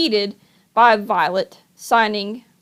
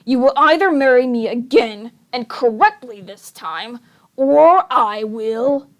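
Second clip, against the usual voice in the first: lightly voiced villain; 3 dB louder than usual. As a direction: savor each word like a schemer. Olaf menaces Violet.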